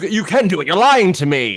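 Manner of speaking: furious, high, loud angry screaming. Discussing a movie, retelling how Doctor Cruz screams at her, imitating Doctor Cruz screaming. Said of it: "he's screaming at her".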